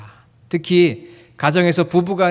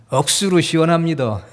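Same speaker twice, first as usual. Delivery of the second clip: Gyeongsang dialect. Shown as a demonstration. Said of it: "경상도 분들은 이렇게 이야기를 합니다".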